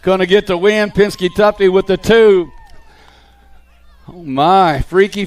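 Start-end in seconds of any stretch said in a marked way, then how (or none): 0.0-2.5 brisk race call, steady and driving; live play-by-play. Acted. Announcer calling the BMX race to the crowd, live play-by-play. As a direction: call the riders through every corner.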